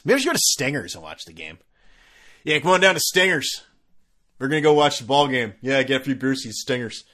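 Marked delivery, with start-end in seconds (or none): 2.4-7.0 louder hyped radio-spot pitch; mock bar ad. Podcaster spoofing a dive bar's radio ad, hyped. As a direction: sell Stingers like a local commercial.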